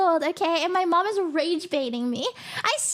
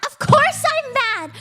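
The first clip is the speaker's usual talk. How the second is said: louder, slow indignant outburst; mad; 5 semitones higher, 5 dB louder, slower than usual. Real, not acted. Answering a friend who asks if she's mad, a slow loud outburst. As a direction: let the anger burst out slowly. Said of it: "Girl, you mad?".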